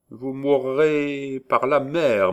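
slow, high, loud hag voice; prophesying witch. A narrator's reading. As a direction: pronounce the doom slowly.

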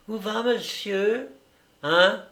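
high-pitched servant challenging someone; maid's voice. A narrator's reading. Maid stopping her master at madame's door, high voice. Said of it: "La bonne, cette chère Louison".

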